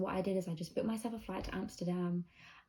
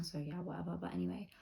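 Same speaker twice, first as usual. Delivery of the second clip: library whisper; 5 dB quieter than usual. Real, not acted. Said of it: "I have to whisper because people are sleeping".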